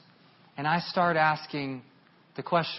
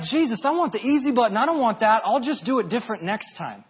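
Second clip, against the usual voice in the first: whiny excuse; 5 semitones higher, 5 dB louder than usual. Retold or imitated. Retold arguing with Jesus.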